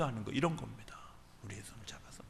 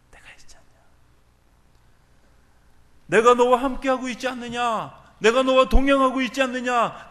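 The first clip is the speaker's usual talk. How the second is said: the Lord's reply; 10 semitones higher, 8 dB louder than usual. Retold or imitated. The Lord answering a complaining believer, whisper building to loud. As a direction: whisper growing into a loud, high proclamation. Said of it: "주님의 대답은".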